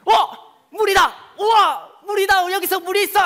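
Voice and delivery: high, loud joyful shouting; excited shout. Acted. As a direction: shout with joy at finding water. Thirsty people find water.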